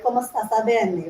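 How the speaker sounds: light Italian lilt, vowels held; Italian accent. Shown as a demonstration. Contrasting Italian vowels for singers, mild Italian lilt. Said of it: "like Italians".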